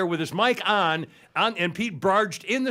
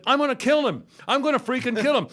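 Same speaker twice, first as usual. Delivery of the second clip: furious threat; 8 semitones higher than usual. Retold or imitated. Telling the boss, fired up and furious. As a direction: blurt it out like you really mean to kill him. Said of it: "and I said".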